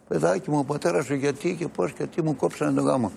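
high, pleading mother's question, retold; upset mother on the phone. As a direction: voice the distressed ex-wife asking why. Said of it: "πήρε την κόρη μου τηλέφωνο".

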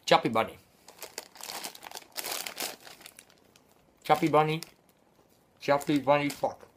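talking through a mouthful of marshmallows; mumbled, cheeks packed full; cheeks stuffed full. Real, not acted.

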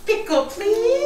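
"Pickle, please" slow and high; slow modeled words. Shown as a demonstration. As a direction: drag out "Pickle, please" for a toddler. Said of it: "modeling the words for toddler".

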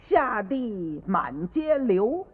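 拖长腔调慢慢吟诗; slow poem recital. Acted. Child recites his poem.

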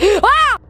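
short, high cry of fright; startled yelp. Real, not acted. Asking who spoke in the game, startled yelp. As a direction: yelp at a sudden scare. Jump scare while playing.

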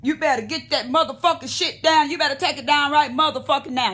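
country swag threat. Retold or imitated. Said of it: "he got that country swag".

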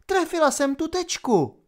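high, triumphant cry. A narrator's reading. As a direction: shout it at the screen. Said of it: "křikla na opalin obraz". (vysoký vítězný výkřik)

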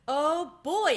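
high, loud burst of delight; excited exclamation. A narrator's reading. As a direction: exclaim it like a thrilled young mouse. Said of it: "exclaimed Ralph".

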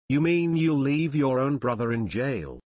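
a touch of mocking challenge in the question; taunting. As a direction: needle him, lightly sarcastic. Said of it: "Joe taunted Stark".

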